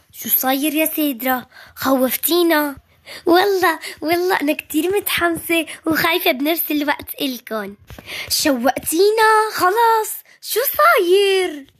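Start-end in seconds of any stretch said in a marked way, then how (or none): 3.3-7.8 nervous excitement. Acted. Nervous excitement announcing guest. 8.3-11.7 impatient excitement. Acted. Impatient kids demanding news.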